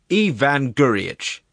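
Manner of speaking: high, loud, drawn-out wail of a name; tearful exclamation. A narrator's reading. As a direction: wail in exasperation, slowly. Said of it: "exclaimed the presiding judge in a tearful voice".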